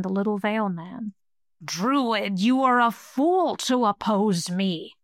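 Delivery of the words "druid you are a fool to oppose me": a hissing, otherworldly monster voice; hissing creature. Acted. Skull-bearer taunts the druid, hissing creature voice. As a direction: hiss it like a demon from the dark. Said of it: "the voice hissed".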